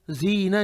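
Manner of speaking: जीना with a plain buzzing z at the front; wrong z. Shown as a demonstration. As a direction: say जीना as zeena, tongue behind the teeth. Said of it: "नहीं है".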